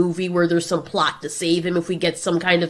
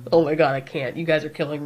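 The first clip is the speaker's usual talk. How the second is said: amused exasperation; 3 semitones lower, faster than usual. Acted. Godzilla cracking up at his friends.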